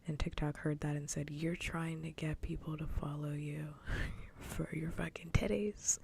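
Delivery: hushed whisper all the way through. Real, not acted. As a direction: keep it a secret-sharing whisper.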